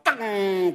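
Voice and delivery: high "teng" sound effect; imitated ringing jolt. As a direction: voice a sudden clang in the head. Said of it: "Langsung kepalaku".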